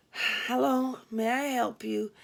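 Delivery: mildly bored receptionist greeting; a hint of switchboard boredom. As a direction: say it like the hundredth call tonight. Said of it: "in that typical, typical bored receptionist voice".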